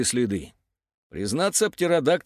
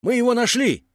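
high-pitched triumphant call; excited announcement; 10 semitones higher, 4 dB louder than usual. A narrator's reading. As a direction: announce the find to everyone. Объявляет находку по рации. (радостно объявляет)

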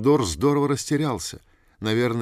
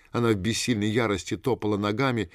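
plain reading voice

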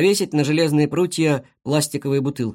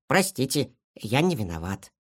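apologising; 4 dB quieter than usual. Acted. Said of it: "извинился Шар".

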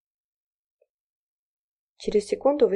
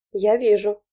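smirking; 3 semitones higher, 6 dB louder, slower than usual. A narrator's reading. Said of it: "усмехнулась Низамова".

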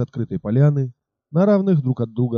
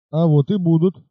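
mocking shout; 5 semitones higher than usual. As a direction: toss it back with mild mockery. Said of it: "насмешливо крикнул всадник".

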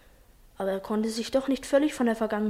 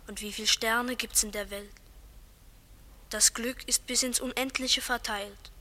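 quiet inner thoughts; 7 dB quieter than usual. Acted. Johnny's night thoughts at the window.

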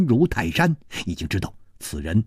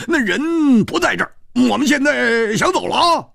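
much higher, light cheeky voice; grinning, airy; 11 semitones higher than usual. Acted. 蝴蝶花 cheerfully says they'll just leave now. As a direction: brush it off with a cheeky grin. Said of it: "蝴蝶花笑了笑".

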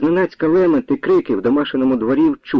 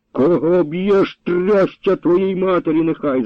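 slow, higher, cursing outcry; old man crying out; 6 semitones higher, slower than usual. A narrator's reading. Beaten grandfather curses his attacker, crying out. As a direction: curse the captain as the whip falls. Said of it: "закричав дід Петро".

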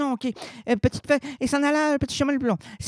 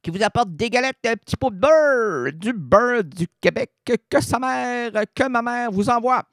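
wolf putting on a little girl's voice, hammed up; hammy wolf faking a girl's voice; wolf disguising voice; 5 semitones higher than usual. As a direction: fake the granddaughter badly. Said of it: "en contrefaisant sa voix".

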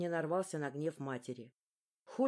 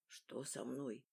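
1 weak thought; 6 semitones lower, 12 dB quieter, slower than usual. A narrator's reading. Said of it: "первая вялая мысль".

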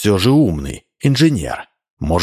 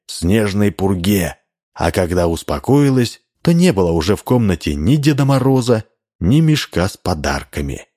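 ordinary delivery

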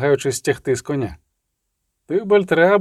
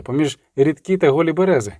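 usual speaking voice

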